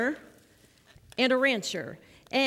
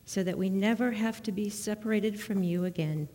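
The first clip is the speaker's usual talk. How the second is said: prayer. Acted. Leads children in prayer.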